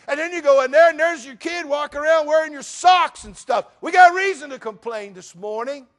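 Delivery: loud, high exasperated preaching; preaching rant. Acted. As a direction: rail against careless people from the pulpit. Rants about thoughtless people.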